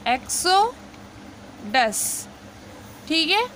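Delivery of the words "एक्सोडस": एक्सोडस drawn out very slowly, each syllable apart; very slow model word. Shown as a demonstration. Teacher modelling एक्सोडस for students, very slowly. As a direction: stretch एक्सोडस out for learners. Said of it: "इसको पढ़ते हैं एक्सोडस".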